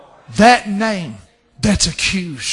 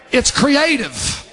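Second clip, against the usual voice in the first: raised, stretched preaching phrase; emphatic declaration; 4 semitones higher, slower than usual. Real, not acted. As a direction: proclaim it slowly to the congregation. First take in preached list.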